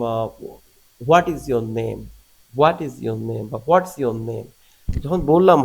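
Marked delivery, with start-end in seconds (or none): 1.1-2.0 "What" stressed, then let the line fall away to "name"; falling intonation. Shown as a demonstration. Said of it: "এটা প্রথমে কিন্তু জোরে বললাম". 2.6-3.5 "What" stressed, then let the line fall away to "name"; falling intonation. Shown as a demonstration. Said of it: "এটি হচ্ছে falling". 3.7-5.0 "What's" stressed, then let the line fall away to "name"; falling intonation. Shown as a demonstration. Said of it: "এটি হচ্ছে falling".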